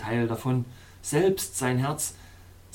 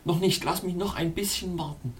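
pleading. Acted. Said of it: "flehte ich".

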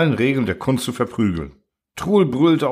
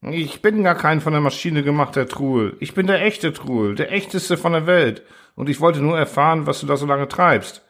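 Truhl voiced higher, hurried confession; pleading Truhl; 3 semitones higher than usual. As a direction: talk fast to save his skin.

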